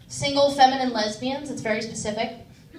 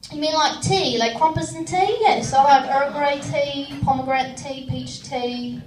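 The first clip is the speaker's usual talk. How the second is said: put-on British accent. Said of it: "I'll do the British accent".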